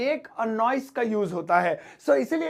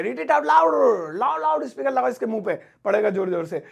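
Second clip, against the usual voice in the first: very slow mock command. Shown as a demonstration. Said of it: "ऐसे".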